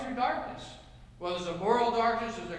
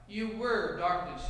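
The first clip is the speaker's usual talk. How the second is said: "were" leaned on, slowed phrase; stress on were; slower than usual. Retold or imitated. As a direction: draw out "You were darkness" with weight on "were". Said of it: "the way Paul puts it".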